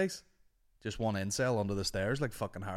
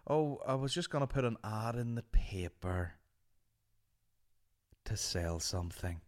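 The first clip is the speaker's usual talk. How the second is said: lightly voiced old man; sad old man. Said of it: "this old man came up, and it was very sad".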